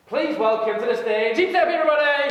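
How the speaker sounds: loud, high call to the crowd; rally the room to welcome her; announcer call. Real, not acted. Host calls speaker onto stage.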